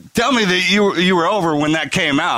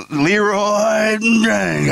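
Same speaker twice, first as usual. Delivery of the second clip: retold yell; 5 semitones higher, much slower than usual. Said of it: "guys screaming that".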